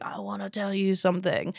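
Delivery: softly mimicked drunk guy; imitated drunk man. Drunk client confiding in her, lightly imitated, softened drunk voice. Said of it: "he was super drunk".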